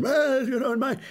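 high, hammed-up old grouch reminiscing; Grampus McFuddy-Dud. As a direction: lampoon a grumbling old codger pining for his day. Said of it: "He's always saying".

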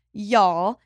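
slight Southern twang on "y'all"; Southern accent. Real, not acted. Host restarts her hiring point, slipping into a Southern accent. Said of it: "I just gave that an accent".

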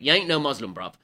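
lightly attempted Cockney; a hint of Cockney on the slangy line; Cockney accent. Shown as a demonstration. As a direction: imitate a Cockney heckler in passing. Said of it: "have to do it in a Cockney accent".

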